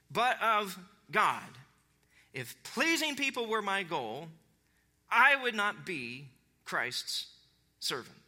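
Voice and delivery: measured declaration with weighty pauses; emphatic scripture reading. Acted. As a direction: start high, settle down to a solemn close. Continues reading Paul's letter.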